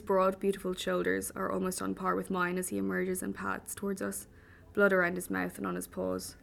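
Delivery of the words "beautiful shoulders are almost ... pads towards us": ordinary delivery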